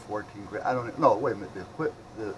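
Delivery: ordinary talk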